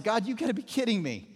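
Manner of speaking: mock-disbelieving objection to God; incredulous protest. Ananias balks at God's order, in incredulous protest. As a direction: push back as if this must be a joke. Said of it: "Ananias is like".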